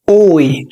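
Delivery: "أوي" gliding from o to ee; oy sound. Shown as a demonstration. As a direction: show the oy glide. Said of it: "فبتتنطق أوي". (صوت أوي)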